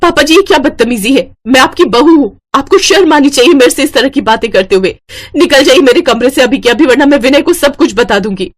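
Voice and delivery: a daughter-in-law scolding her father-in-law, angry; angry rebuke. Acted. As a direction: tell him off, shocked and outraged. Bahu furious at father-in-law.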